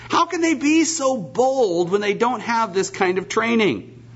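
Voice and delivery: preacher voicing the scornful council, mocking tone; scornful religious leaders. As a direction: sneer like a proud rabbi looking down on fishermen. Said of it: "they look down on them".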